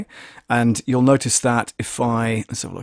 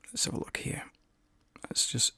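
whisper; 17 dB quieter than usual. Real, not acted. Whispering while adjusting the mixer.

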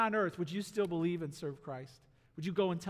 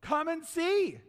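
firm invitation; 9 semitones higher, 4 dB louder, slower than usual. Acted.

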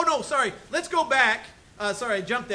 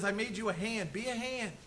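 softer, gentle restatement of God's word; God's soft reminder; 7 dB quieter than usual. Retold or imitated. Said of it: "God says".

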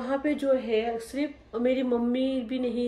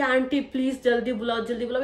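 screaming for help; 2 semitones higher than usual. Retold or imitated. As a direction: beg the neighbour to hurry. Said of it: "मैं बहुत ज़्यादा चीखने लगी".

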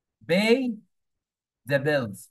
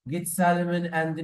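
imitating Khlestakov's airs; 2 semitones higher, much slower than usual. Servant mimicking his master alone, lightly acted pompous orders. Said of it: "وبيكلم نفسه وبيقلد".

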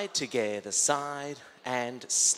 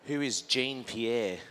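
put-on Aussie accent; 3 semitones lower, much slower than usual. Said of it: "in my Aussie accent".

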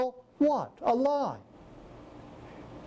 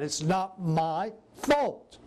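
slow whiny excuse; much slower than usual. Retold or imitated. Drawn-out excuse repeated.

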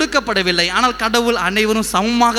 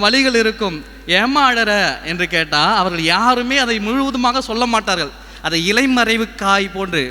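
raised, higher sermon voice; preaching; 4 semitones higher than usual. Acted. Preacher to congregation about women hiding family troubles, preaching. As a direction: lift it into pulpit delivery.

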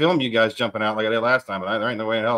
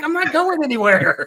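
very high-pitched retold yell; mock yelled reply; 4 dB louder than usual. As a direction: yell back in a high, exaggerated voice. Acted reply to screaming warning.

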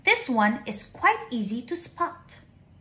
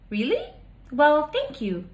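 a higher, surprised little thank-you; pleasantly surprised bird; 4 semitones higher than usual. Acted. Small bird thanking the old tree, pleasantly surprised. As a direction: catch your breath, then thank him. Bird answers tree's kind welcome.

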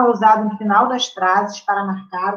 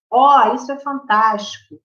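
slower "Ó, isso é fantástico!"; exclamation; slower than usual. Shown as a demonstration. Teacher acting out an exclamation for the class. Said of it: "aí usa o ponto de exclamação".

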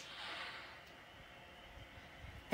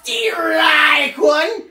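drawn-out, much louder umpire shout; umpire call; 5 semitones higher, 12 dB louder than usual. Pretend. Pitcher's side calling strikes like a home-plate umpire, booming call. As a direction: bellow the strike like an ump.

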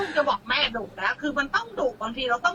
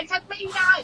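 mimicking a complainer; 6 semitones higher than usual. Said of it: "ก็จะมีบางคนโวยวาย".

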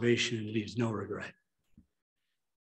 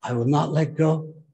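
louder declared repeat; 3 semitones higher, 6 dB louder than usual. Shown as a demonstration. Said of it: "Say it".

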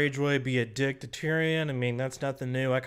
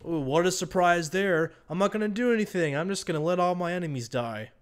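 sarcastic mock surprise; 3 semitones higher than usual. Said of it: "you're like".

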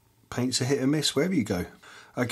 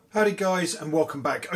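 upbeat greeting; 7 semitones higher than usual. Acted. Upbeat intro greeting to viewers.

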